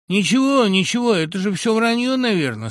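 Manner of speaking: ordinary delivery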